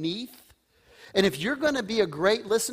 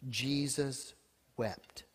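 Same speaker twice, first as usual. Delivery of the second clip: hushed, slow, reverent reading; hushed solemn verse; quiet and solemn; 8 semitones lower, 9 dB quieter, slower than usual. Acted. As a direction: let it fall soft and heavy. Quoting the shortest verse solemnly.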